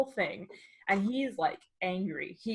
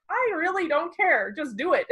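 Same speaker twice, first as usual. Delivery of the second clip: 1 impatient snap; 8 semitones higher, 5 dB louder than usual. Retold or imitated. Impatient reply to barista.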